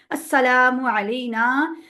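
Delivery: slow Arabic chant, stretching अस्सलामु अलैना; drawn-out recitation. Shown as a demonstration. Teacher reciting the prayer line properly, slow chant. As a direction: draw out अलैना long. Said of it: "अस्सलामु अलैना को हम लंबा नहीं कर रहे होते".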